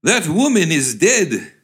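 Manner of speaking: high, slow, horrified announcement; scandalized and drawn out; shocked exclamation. Acted. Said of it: "he exclaimed".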